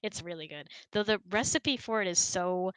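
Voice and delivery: ordinary talk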